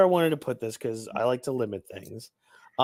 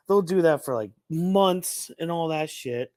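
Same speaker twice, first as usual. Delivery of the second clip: normal talking voice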